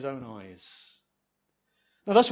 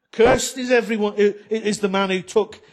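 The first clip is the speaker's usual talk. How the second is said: mother's curse; 2 semitones higher than usual. Retold or imitated. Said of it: "she says".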